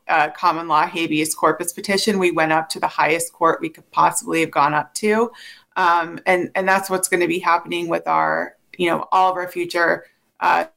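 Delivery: breaking up on a bad phone line; choppy, cutting-out call audio; drowned in static. Real, not acted. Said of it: "you're breaking up just a little bit".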